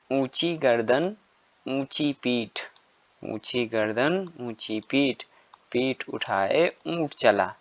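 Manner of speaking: put-on slow sing-song recital for children; poem recitation. Shown as a demonstration. Teacher reciting a camel poem to young pupils, sing-song. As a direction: recite the rhyme slowly to the class.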